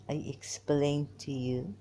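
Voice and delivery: put-on emphatic Irani Arab accent. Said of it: "my Irani Arab way".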